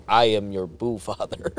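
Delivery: low, soft mob-boss voice; mobster ghost. Acted. Ghost right in the waking man's face, low mob boss. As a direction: loom quietly like a godfather. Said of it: "one of the ghosts".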